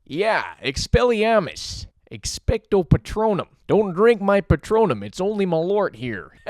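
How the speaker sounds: a mild hint of a goofy Chicago guy host. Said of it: "I don't know why I do that voice".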